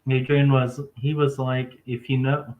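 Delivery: talking around a cough drop; cough drop in mouth. Real, not acted. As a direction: lozenge rattling in mouth. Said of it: "I got cough drop in my mouth".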